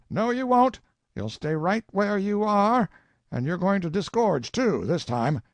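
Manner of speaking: high, loud and insistent. Acted. Collector stopping the Colonel's excuse, loud and firm. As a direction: cut him off, won't be fooled.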